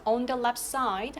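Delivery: "on the left side" very slowly, up on "side"; rising intonation. Shown as a demonstration. Teacher models the picture description, rising on "side". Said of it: "하면서 억양 올려주시고요".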